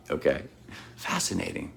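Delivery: tired and a bit foggy after surgery; weak after surgery. Real, not acted. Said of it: "'cause I had surgery yesterday".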